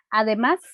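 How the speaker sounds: «Además» con la última sílaba acentuada, subiendo; acento final. Shown as a demonstration. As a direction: carga la voz en el «más» de «Además». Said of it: "el acento está en la última sílaba". («Además» con acento agudo en la última sílaba)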